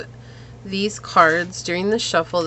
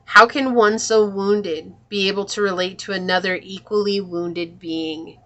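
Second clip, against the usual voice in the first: measured, solemn reading of the card text; reading aloud. Acted. Reader to viewer, reading the card's words solemnly. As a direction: read it like a sacred message.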